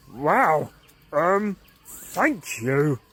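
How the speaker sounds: slow, hesitant amazed thanks; barely believe it; stunned. Acted. Caveman amazed at the bird's gift, stunned thanks.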